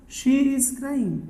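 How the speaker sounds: very slow, spaced-out words; drawn-out teaching delivery; slow modelling. Shown as a demonstration. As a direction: say it slowly for learners to follow. Teacher models the English sentence slowly.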